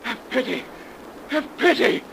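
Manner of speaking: loud, high, desperate begging; desperate pleading. Acted. Captain begging the priest and messenger for pity, desperate. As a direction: plead for your life in terror.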